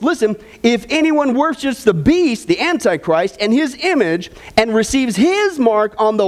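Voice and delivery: lifted, measured Bible reading to the congregation; scripture reading. Acted. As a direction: read the verses out like a preacher at the pulpit. Reads scripture aloud.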